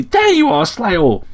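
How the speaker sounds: high, chirpy sparrow voice; cheerful chirp. A narrator's reading. Sparrow greets the sleeper at the window, cheerful chirp. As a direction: chirp a bright hello, pitched high. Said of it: "chirped cheerfully".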